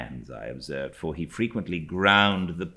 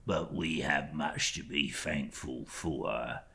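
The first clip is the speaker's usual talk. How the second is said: slow, hushed servile voice; a slow, whispered, cringing clerk; fawning humble clerk; slower than usual. Acted. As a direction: lay the humility on thick. Uriah's voice in story reading.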